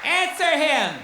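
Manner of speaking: mocking heckler's outburst; mocking heckler yell. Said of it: "yell out".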